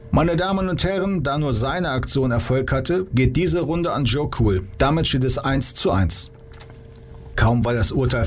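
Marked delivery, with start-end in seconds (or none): 0.1-6.3 higher announcer voice opening to the crowd; host voice, lightly raised. Acted. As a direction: proclaim the score to the audience. Host announces round result.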